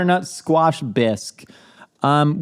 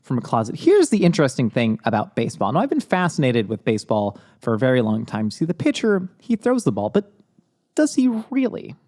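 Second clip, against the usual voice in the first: Ira Glass; 2 semitones lower than usual. Acted. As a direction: wonder aloud like a radio host. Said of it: "I'm Ira Glass, and I am recording from a closet".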